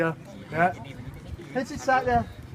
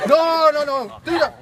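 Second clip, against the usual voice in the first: higher and louder nagging "no, no, no"; insisting wife; 6 semitones higher, 5 dB louder than usual. Acted. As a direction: order him firmly. Wife insisting husband fetch wood.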